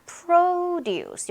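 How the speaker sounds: "produce" as long, high PRO-duce; stress on first syllable. Shown as a demonstration. Teacher introduces the noun, "produce" stressed on PRO. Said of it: "앞에 강세 있으면요".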